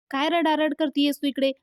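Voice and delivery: scolding. Acted. Scolding someone who is crying.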